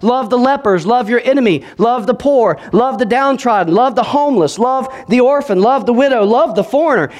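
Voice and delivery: high, ringing preacher's call; rising sermon cadence of love; fiery preaching. Acted. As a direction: preach it out to the crowd. Preaching at full force.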